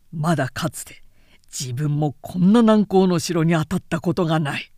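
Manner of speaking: a touch of a weary warlord's lament; lamenting general. Acted. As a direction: sigh it out as a frustrated commander. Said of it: "と、短ぜしめた".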